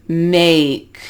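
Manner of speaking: slow Make with an audible ay-ee glide; gliding diphthong demo. Shown as a demonstration. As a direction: Make drawn out, the A gliding up towards ee. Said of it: "start at the A and it kinda goes up".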